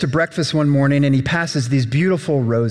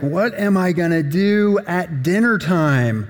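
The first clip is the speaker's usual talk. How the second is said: groaning hungry king; 5 semitones higher than usual. Acted. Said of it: "he's like".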